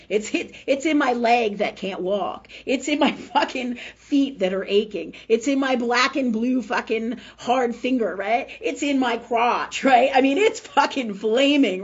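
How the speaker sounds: loud, emphatic list of ailments; exasperated venting. Real, not acted. Listing where the pain sits in the body, exasperated. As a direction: hammer each ailment out loudly. Vents about her aching body parts.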